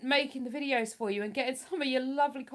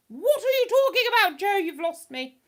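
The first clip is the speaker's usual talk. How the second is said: loud, high-pitched bewilderment; baffled outburst; 9 semitones higher, 7 dB louder than usual. Real, not acted. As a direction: blurt it out, totally lost and incredulous. Baffled by a chat message.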